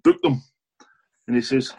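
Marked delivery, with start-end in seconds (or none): 0.0-0.4 sharp, much higher, louder command; barked order. Retold or imitated. Commander shouting an order at a young policeman, loud and high.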